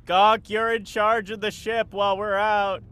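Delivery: mild acted shout over the shoulder; called-back shout. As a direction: call back to someone left behind. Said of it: "turns back and shouts".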